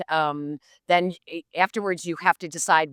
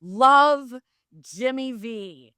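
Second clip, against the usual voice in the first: reading autograph; 7 semitones higher, 5 dB louder, much slower than usual. Retold or imitated.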